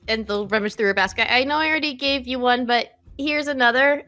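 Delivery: flustered apology. Acted. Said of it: "She gets very flustered".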